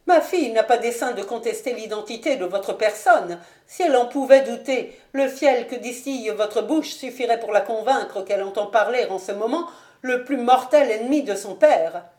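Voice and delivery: a touch of indignant matriarch; stern noblewoman. Acted. Voices haughty lady Ashton. (mère noble légèrement indignée)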